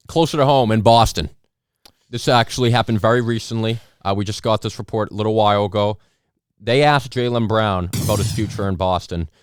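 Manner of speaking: loud, formal newscaster read; news anchor. Pretend. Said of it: "anchor impression".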